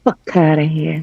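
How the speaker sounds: British speaker trying on an American accent; attempted American accent. Shown as a demonstration. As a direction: copy the New Yorker's American accent. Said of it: "I can't keep up the American accent".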